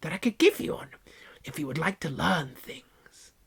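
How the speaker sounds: high, preachy offer; haughty aunt. Acted. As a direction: lecture the visitor. Aunt pushes evolution.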